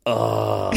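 long drawn-out "ohhh"; imitated long "oh". Fan's voice message trailing into noise, imitated drawn-out groan. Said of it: "then he just goes like this".

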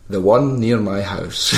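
lightly voiced old man, slow; a hint of a doddery old caller; old guy. Prank caller ordering a taxi as an old man, lightly aged voice. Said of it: "pretend to be, like, an old guy".

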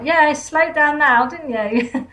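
slow, drawn-out mocking jab at the cyclist; sarcastic retort. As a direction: tease the cyclist who just slowed down, slow and knowing. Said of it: "And I'm like".

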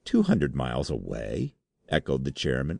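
high, desperate pleading voice; terrified denial. Acted. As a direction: protest innocence in panic. Terrified clerk denies guilt.

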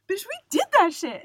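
loud, high victory shout; triumphant yell. Retold or imitated. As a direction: scream it like you won. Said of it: "I was like".

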